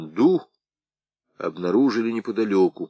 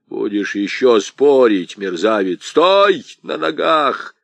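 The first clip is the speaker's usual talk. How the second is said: put-on slow, loud menacing snarl at a beaten old man; angry threat; 2 semitones higher, 5 dB louder, slower than usual. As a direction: bear down on him with slow rage. Аргылов угрожает избитому старику. (медленная громкая злобная угроза)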